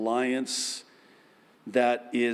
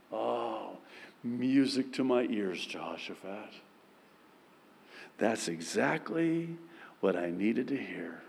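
softer, lower, tender satisfaction; tender God voice; 5 semitones lower, 8 dB quieter than usual. Acted. God pleased at Jehoshaphat's words, soft and tender. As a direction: savor it quietly as God.

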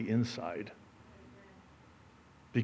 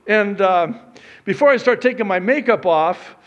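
loud, higher-pitched sermon delivery; forceful preaching; 9 semitones higher, 10 dB louder than usual. Real, not acted. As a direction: drive the point home to the congregation. Preaches, voicing objections.

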